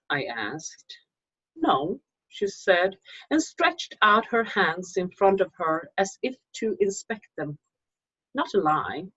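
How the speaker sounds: measured, hushed reading of a ghost tale; story narration. A narrator's reading. Author reading her ghost story to viewers, calm storytelling voice.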